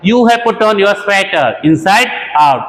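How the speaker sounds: slow, deliberate teacher read; slow example sentence for learners; slow model sentence. Shown as a demonstration. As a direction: dictate each word slowly. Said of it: "ऐसे भी बोल सकते हैं".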